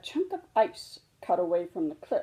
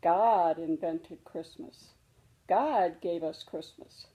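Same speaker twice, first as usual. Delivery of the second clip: gentle mother bear; 2 semitones lower than usual. Acted. Mama answers her cub gently.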